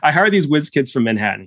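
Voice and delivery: lightly imitated Texan old-timer; attempted Texan accent. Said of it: "I'm trying to do the accent".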